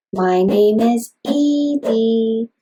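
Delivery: slow, one beat per syllable; slow drummed phrase. Shown as a demonstration. Therapist modeling a phrase with drumming, slow even beats. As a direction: drum out each syllable slowly. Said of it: "or drumming".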